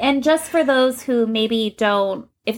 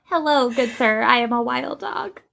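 starts in the usual voice and climbs much higher by the end; mock fierce wild dog; 7 semitones higher than usual. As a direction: pretend to be a fierce wild dog at a job interview, voice rising. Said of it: "It's more convincing when your voice goes up like that".

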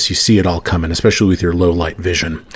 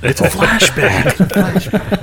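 dramatic announcement; 12 semitones higher, much slower than usual. Acted. GM echoes joke dramatically.

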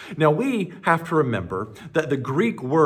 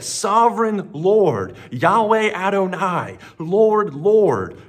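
higher, louder desperate plea to God; pleading cry; 7 semitones higher, 6 dB louder than usual. Acted. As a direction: cry out Lord, Lord as if begging for mercy. Moses' desperate prayer voiced.

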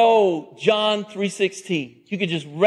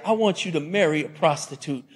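lower, softer, quick pronouncement; God speaking; 4 semitones lower, 5 dB quieter, faster than usual. Acted. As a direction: say it low and matter-of-fact. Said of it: "the Lord God says to Hosea".

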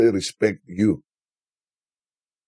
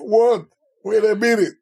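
retold surprise; 11 semitones higher than usual. Retold surprised reaction to screaming.

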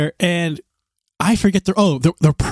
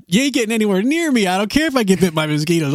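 higher, fast playful refusal; mock-stern refusal; 4 semitones higher, faster than usual. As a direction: shoo your spouse away jokingly. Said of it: "I'm like".

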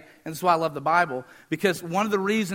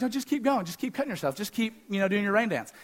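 mocking taunt; 7 dB quieter than usual. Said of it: "he's taunting".

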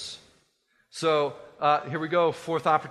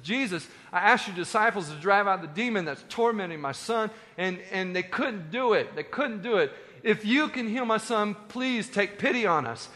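higher, urgent appeal of a father; pleading; 5 semitones higher than usual. Acted. Dad begging Jesus to heal his son, acted pleading. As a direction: beg on behalf of your child. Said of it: "he's pleading with Jesus' disciples".

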